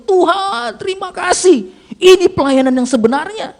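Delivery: high, loud emotional cry to God; weeping gratitude. Acted. Preacher thanking God on the way home, tearful cry. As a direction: cry out thanks, re-enacting the tears. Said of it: "saya menangis".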